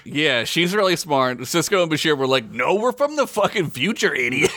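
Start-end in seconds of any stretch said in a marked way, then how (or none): 2.5-4.5 laughing mock scorn. Sisko mocked as condescending.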